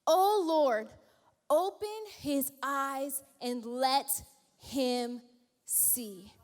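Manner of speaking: slow, fading earnest prayer; hushed pleading prayer. Acted. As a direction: pray for his servant's eyes. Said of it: "Elijah prayed this".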